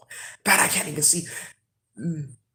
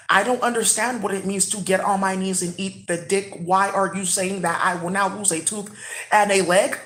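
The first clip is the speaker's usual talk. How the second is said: lightly put-on baffled voice, evenly measured; imitating space talk. Imitating bitches in space questioning their fate, lightly stilted. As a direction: recite the questions stiffly, word by word. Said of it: "That is how these bitches talk in space".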